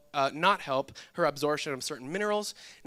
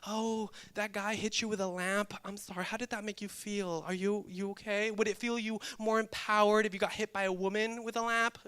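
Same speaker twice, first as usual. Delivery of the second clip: a hint of a gentle therapist, softer; soft mock therapist; 3 semitones higher, 4 dB quieter than usual. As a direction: lightly mimic a syrupy counselor. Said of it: "She's not one of those psychologists".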